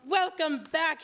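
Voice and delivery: a gleeful cry of welcome; joyful shout. A narrator's reading. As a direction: call it out for everyone to hear. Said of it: "he shouted for all to hear".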